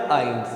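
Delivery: आइंस with "ei" like English "I"; German pronunciation. Shown as a demonstration. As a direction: say आइंस as "ains". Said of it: "अपने English के आई जैसी निकलेगी".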